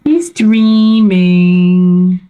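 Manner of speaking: slow, fond coo; drawn-out doting coo; tender coo. Real, not acted. Cooing over pet.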